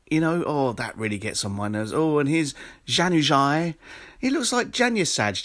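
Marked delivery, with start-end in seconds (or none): 1.9-5.4 mock football commentator. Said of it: "try and announce the name of the player in the accent".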